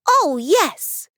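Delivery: high, bright little fairy voice. Acted. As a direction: answer gladly as a tiny fairy. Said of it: "said the fairy".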